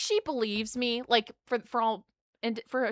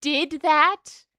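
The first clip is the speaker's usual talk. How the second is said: higher, mortified blurt; 7 semitones higher than usual. Retold or imitated. Patient panicking about what everyone thinks, higher. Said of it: "I was just like".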